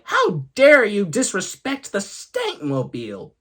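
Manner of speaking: high-pitched mock outrage; acted indignation. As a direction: take grand offence, raising the pitch. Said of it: "And he was like".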